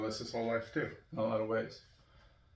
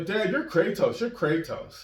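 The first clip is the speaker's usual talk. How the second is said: put-on higher excited kid voice; imitating kids; 7 semitones higher, 5 dB louder, slower than usual. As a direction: kids cheering at their dad. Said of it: "so the kids were like".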